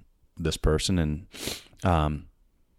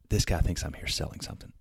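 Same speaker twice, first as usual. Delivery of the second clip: whispered thought; 6 dB quieter than usual. Retold or imitated. Thought to himself, stunned.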